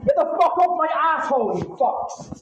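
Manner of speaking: yelling in real anger; furious shout. Real, not acted. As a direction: scream it out, enraged. Shouting at people holding him.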